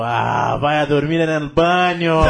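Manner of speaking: slow sing-song mock Spanish; lazy lilting Mexican accent; imitating Mexican waiter. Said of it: "aí ele olhou pra mim e falou".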